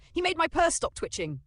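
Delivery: high, loud delighted exclamation; happy gasp. A narrator's reading. Woman praising the magician, gasping happily. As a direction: squeal it with delight. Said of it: "Christine gasped happily".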